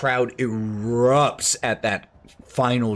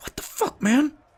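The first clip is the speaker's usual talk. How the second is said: very high, hushed stage whisper. Voicing a hurt wrestler in a fight scene, half-whispering. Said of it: "he just kinda whispers".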